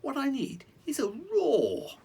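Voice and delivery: high, breathy excited whisper; whispered mouse. Acted. The mouse sharing his secret plan in a whisper.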